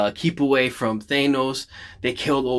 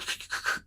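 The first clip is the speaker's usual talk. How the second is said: mimicked radio crackle; short voiceless static noise from the throat; imitated earpiece sound; 12 dB quieter than usual. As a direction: imitate a faint earphone crackle. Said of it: "he gets this weird, like, s-, uh, sound".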